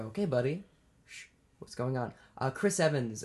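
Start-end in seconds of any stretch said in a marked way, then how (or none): 0.0-2.1 kind self-talk. Retold or imitated. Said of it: "take it and go".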